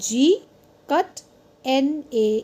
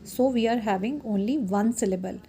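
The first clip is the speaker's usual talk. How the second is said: unhurried explaining voice; measured classroom delivery; slow teacher reading; much slower than usual. Acted. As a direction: spell it out slowly for the class.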